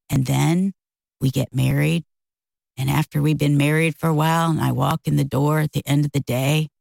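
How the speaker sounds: dropped, level and deliberate retelling; low voice. Retold or imitated. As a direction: imitate a man turned suddenly somber. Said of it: "then your voice goes low".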